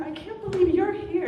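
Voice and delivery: high, loud delighted greeting; excited. Retold or imitated. Nancy greeting friends, high and loud. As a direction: squeal it to the crowd. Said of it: "She's like".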